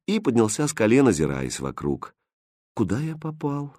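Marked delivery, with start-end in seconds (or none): 2.7-3.8 soft, wondering question to himself; thinking aloud. Acted. Prince quietly asks himself, soft aside. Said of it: "спросил себя Хрустальд".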